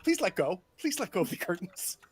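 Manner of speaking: mildly anxious footman's plea; pleading footman. Acted. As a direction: beg politely as a fretful servant. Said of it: "It's kind of like".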